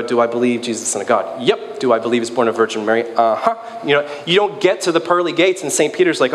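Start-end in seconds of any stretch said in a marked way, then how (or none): 0.0-3.6 rattling off a checklist. Retold or imitated. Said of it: "a statement of belief and go".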